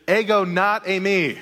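a mock quote with a laugh breaking through. Preacher jokingly garbles the Baptist's words, laughing. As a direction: quote it while laughing at the twist. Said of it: "what John says here is".

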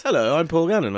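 mock presenter voice; teasing presenter impression; Paul Gannon. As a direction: mimic a co-host's put-on show voice. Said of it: "you're doing the voice".

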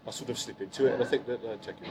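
Brummy accent. Shown as a demonstration. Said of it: "I can do Brummy".

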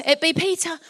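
put-on light comic Suffolk accent. Peter announces himself at the door, lightly Suffolk accent. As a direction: announce yourself in a playful Suffolk voice. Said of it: "probably had a Suffolk accent".

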